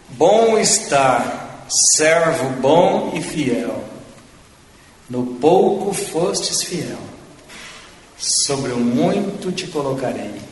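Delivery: very slow, drawn-out scripture quote; solemn recitation. Retold or imitated. Preacher quoting the Lord's welcome to the faithful servant, solemn recitation. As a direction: stretch each phrase, with pauses between.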